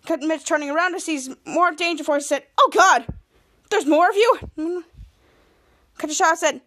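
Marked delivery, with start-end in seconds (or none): 2.6-4.4 loud, higher-pitched dismay; dismayed surprise. Acted. Mitch sees more Danger Force, dismayed surprise. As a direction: react as if outnumbered.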